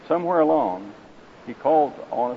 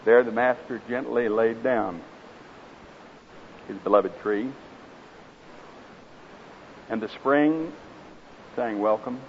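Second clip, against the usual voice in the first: story narration. A narrator's reading. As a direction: tell the parable gravely, savouring each image. Reads parable aloud in sermon.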